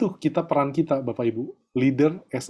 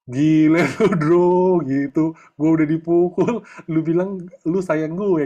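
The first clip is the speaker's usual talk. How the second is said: put-on annoyed kid retort; 3 semitones higher, 4 dB louder, slower than usual. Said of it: "Anak gimana?".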